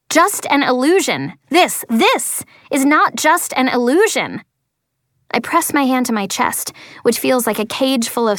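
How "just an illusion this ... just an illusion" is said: high angry yell. Acted. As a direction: shout it back, outraged. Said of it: "I'm yelling now".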